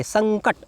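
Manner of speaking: संकट with nasal ङ before क; correct pronunciation. Shown as a demonstration. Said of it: "उच्चारण करके देखिए".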